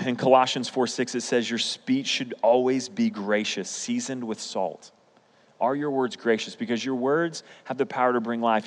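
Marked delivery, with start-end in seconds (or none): 1.5-4.9 slow, measured reading of scripture. Acted. Preacher reading Colossians to the congregation, slow and measured. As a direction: read the verse slowly and deliberately. Reads Colossians aloud slowly.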